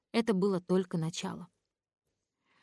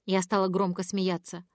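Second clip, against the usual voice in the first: plain reading voice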